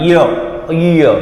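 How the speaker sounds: ઞ letter voiced as "ય", slowly set apart; teacher demonstrating the sound "ય"; pronunciation demo. Shown as a demonstration. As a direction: say "ય" alone as a model pronunciation. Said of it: "અને આનું ઉચ્ચારણ".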